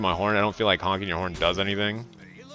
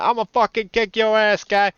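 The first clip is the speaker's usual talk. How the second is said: higher, puffed-up imitated threat; mock tough guy; 10 semitones higher than usual. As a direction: act like a hothead shipyard worker. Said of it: "It's like".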